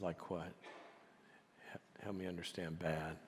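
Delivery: soft, low-key counsellor's voice; gentle probing. Retold or imitated. Counsellor drawing out the hurt chairman, gently probing. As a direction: ask very softly, inviting him to open up.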